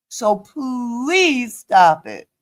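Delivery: slow appeal with long-held "please"; real drawn-out exasperated request. Real, not acted. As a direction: beg them to quit, worn out. Appeal to Maria to stop.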